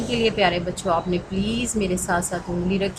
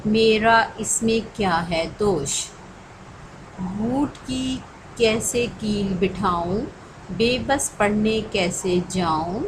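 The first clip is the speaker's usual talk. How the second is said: slow rhythmic Urdu poem recital; poem recitation; slower than usual. Acted. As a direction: recite the poem slowly for children to follow.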